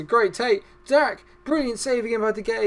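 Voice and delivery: high, loud burst; excited commentary. Real, not acted. Commentator reacting to a brilliant save, high excitement. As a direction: jump up in pitch as the chance comes. Another chance saved.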